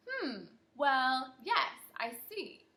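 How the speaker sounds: slow, lightly voiced doctor humming to himself; mumbling doctor. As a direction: mull it over like a puzzled doctor. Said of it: "Doctor Bumble mumbled".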